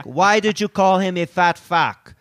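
put-on voice, pressing the accusation; Mammoliti. Sidekick confronting the reporter for his buddy, mock indignant. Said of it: "And then Mammoliti's like".

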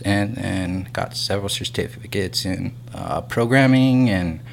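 breathless, out of breath; out of breath, sighing for air. Real, not acted. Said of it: "sorry, I'm out of breath".

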